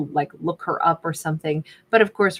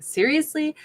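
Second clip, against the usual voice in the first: sassy; 3 semitones higher than usual. Retold or imitated. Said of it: "I immediately wanna get all sassy pants".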